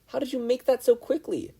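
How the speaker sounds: high, amazed question; excited wonder. A narrator's reading. Ochako amazed by Midoriya's suit, excited. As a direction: ask it in delighted awe. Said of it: "Ochako cheered".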